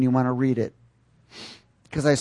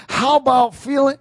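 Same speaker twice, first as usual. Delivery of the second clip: high, loud voice of a demanding soul; acted-up soul; 12 semitones higher, 7 dB louder than usual. The soul acting up against the spirit, loud high demand. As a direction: act out the soul piping up. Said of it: "your soul starts to act up and says".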